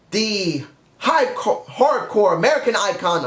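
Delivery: slightly woozy on allergy medicine; stumbling over the words, a bit woozy. Real, not acted. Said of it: "I'm sorry I said it like that".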